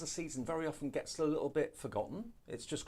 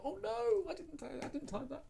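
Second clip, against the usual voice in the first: dismayed. Retold or imitated. Imitating texter's dismay.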